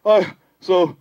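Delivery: slow, weary admission; sleepy. Acted. Animal apologizing for falling asleep, drowsy. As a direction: let it sag into sleep. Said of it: "I'm so tired".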